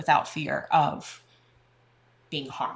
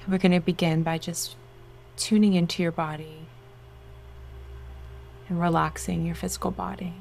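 guided meditation. Acted. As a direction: soothe them into relaxation.

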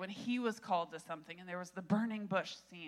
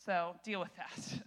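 authoritative angel; 2 semitones higher, 5 dB louder than usual. Acted. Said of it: "he's basically saying".

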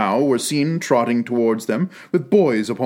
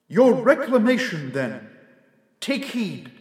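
a lightly voiced solemn spirit, higher; ghostly spirit voice; 7 semitones higher than usual. A narrator's reading. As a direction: speak as a calm, grave ghost. Ghost's lines in the tale.

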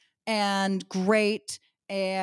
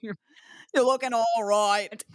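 bad Australian accent; 3 semitones higher, much slower than usual. Imitating Australian guys hitting on two women, bad Australian accent. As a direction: ham up a slow Australian chat-up line. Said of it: "I cannot do an Australian accent".

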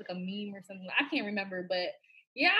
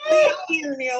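laughing shout; 10 semitones higher, 4 dB louder than usual. Real, not acted. Reacting to the joke.

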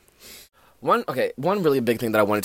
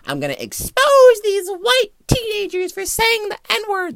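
white savior parody; 3 semitones higher, 5 dB louder than usual. Retold or imitated. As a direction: ham up a self-righteous crusader. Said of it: "Mister White Savior".

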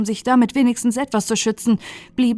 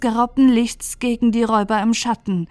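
feierliche Throni-Stimme; 3 semitones higher, 3 dB louder than usual. Acted. Throni spricht.

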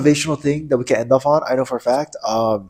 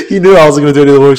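laughing; 2 semitones higher, 6 dB louder, much faster than usual. Retold or imitated. Repeated laughing.

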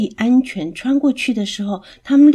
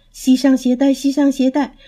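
higher parrot voice chanting the words; squawking parrot; 6 semitones higher than usual. A narrator's reading. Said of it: "连声地叫着". (鹦鹉尖声重复地叫)

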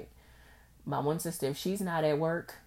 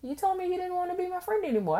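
imitating the old friend; 3 dB louder, faster than usual. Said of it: "And she was just like".

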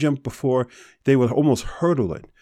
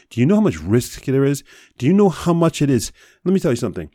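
higher and louder, exasperated demand; real anger; 5 semitones higher, 3 dB louder, faster than usual. Real, not acted. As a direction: drive the question at them, fed up. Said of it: "I'm pissed right now".

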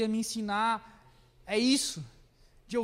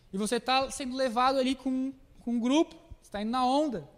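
normal talking voice

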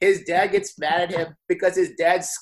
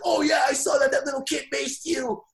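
mocking friends; 9 semitones higher than usual. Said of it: "all his friends were like".

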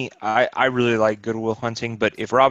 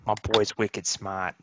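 put-on Boston accent; 5 dB quieter than usual. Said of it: "the accents were very good in it".

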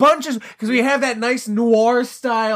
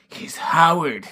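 put-on slow, lightly Austrian-accented Arnold; Arnold impression; 3 semitones lower, slower than usual. Joking about Arnold's character names, light Austrian accent. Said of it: "like, with Arnold".

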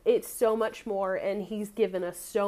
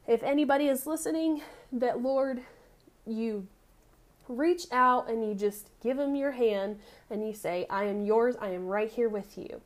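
earnest spoken prayer to the Father; closing prayer. Acted. Preacher praying for whoever is listening, earnest prayer. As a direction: pray aloud over the listeners, steady and sincere.

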